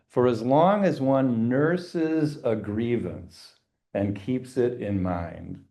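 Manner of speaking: slow, relishing the quoted line; slow savoring read. Shown as a demonstration. Teacher savoring a favorite quote, slowly. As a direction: linger over each word you love. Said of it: "And then I love this line".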